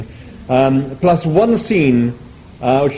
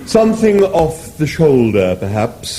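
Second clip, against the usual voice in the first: suggesting; 3 semitones higher, slower than usual. Acted. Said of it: "suggested the animal".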